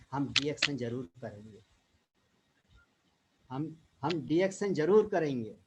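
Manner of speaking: declaimed couplet with pauses at each line end; shayari recitation. Retold or imitated. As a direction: recite rousing verse line by line. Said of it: "एक शायर ने लिखा है". (जोश भरे अंदाज़ में शायरी)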